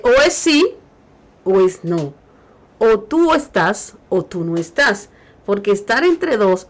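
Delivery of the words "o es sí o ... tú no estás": loud, driving each choice home; emphatic quote. Retold or imitated. Preacher quoting Jesus to listeners, loud and emphatic. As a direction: hammer the yes-or-no. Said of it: "él le dice".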